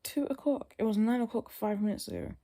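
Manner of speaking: high-pitched incredulous protest; retold disbelief. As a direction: echo the time as if it can't be true.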